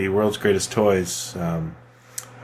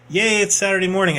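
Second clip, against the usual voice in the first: mock kid cheer; 9 semitones higher, faster than usual. Childlike Saturday cheer.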